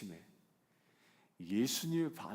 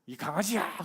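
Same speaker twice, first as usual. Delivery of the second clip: mock insult; 5 semitones higher, 6 dB louder than usual. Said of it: "그러면".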